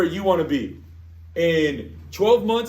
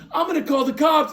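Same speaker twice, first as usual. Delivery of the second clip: laughing neighbor; 8 semitones higher, 4 dB louder than usual. Retold or imitated. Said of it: "She goes".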